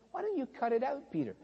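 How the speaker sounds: rising pitch, weary exasperation; a fed-up teacher losing patience; the Lord pleading with Peter, high and exasperated. Retold or imitated. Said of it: "felt like saying to him".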